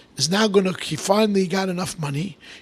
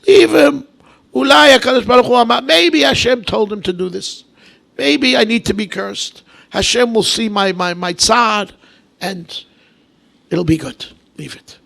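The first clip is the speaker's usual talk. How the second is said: king's calm reply; 4 semitones higher, 5 dB louder than usual. Retold or imitated. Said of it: "he was stoning him".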